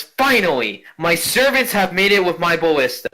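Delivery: a hint of a grand dame greeting servants; haughty noble lady. Ghost noblewoman greeting her servants, lightly haughty. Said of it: "And she looks at you and goes".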